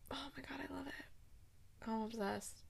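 very soft, swooning aside; tiny, besotted murmur; hushed gushing. Real, not acted. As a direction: gush almost under the breath. Gushing over the pet name.

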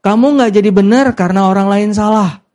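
a confident second telling; said out boldly. Shown as a demonstration. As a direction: declare it with conviction. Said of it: "Bilang, bilang, bilang".

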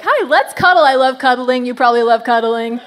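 a light mock creepy friendliness; awkward stranger. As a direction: act a weird bench cuddler. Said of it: "I'm not like".

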